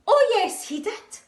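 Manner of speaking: high, loud shouted retort; panto shout. Acted. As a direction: yell it back like a panto crowd. Pantomime call and response.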